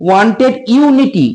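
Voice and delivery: drawn out, word by word; slow dictation. Shown as a demonstration. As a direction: dictate slowly. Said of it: "উচ্চারণ দেখবো".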